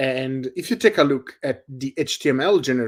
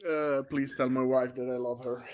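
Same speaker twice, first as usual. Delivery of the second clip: mock dying words; 9 dB quieter than usual. Mock last words after coughing.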